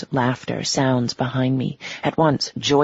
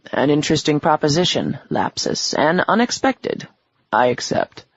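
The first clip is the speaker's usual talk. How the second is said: menacing devil voice. Acted. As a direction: speak like a smug ancient devil. Devil speaks.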